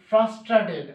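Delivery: teacher sounds out ফ্রাস্ট্রেটেড as one word; pronunciation demo. Shown as a demonstration. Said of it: "টিইডি হচ্ছে টেড".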